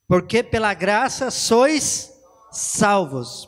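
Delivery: slow, deliberate scripture quote; reading scripture. Shown as a demonstration. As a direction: read the verse slowly, word by word. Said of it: "tá escrito assim".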